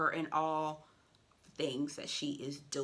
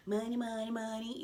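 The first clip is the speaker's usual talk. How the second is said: laughing; 4 semitones higher than usual. Real, not acted. Laughing along to money song.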